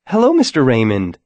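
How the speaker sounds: a touch of cheerful brightness; lightly chirpy hello to the guard; bright greeting. Acted. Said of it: "Sarah said brightly".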